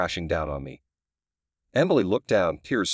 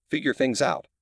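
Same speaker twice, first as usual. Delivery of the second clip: disbelieving echo, pitch up; incredulous; 5 semitones higher than usual. Acted. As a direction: repeat it back in disbelief. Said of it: "I echoed, incredulous".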